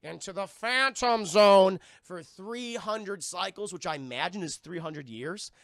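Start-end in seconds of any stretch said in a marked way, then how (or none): 0.0-3.7 stern sentence. Retold or imitated. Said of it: "Kryptonian council, like".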